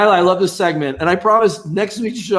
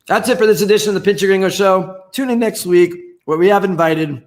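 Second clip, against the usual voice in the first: signing off while still chewing; words around a mouthful of food; mouth full; 3 semitones higher than usual. Real, not acted. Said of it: "to swallow my meat".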